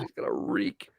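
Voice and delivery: breathy whisper of disgust. Real, not acted. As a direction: whisper it, grossed out. Disgusted aside.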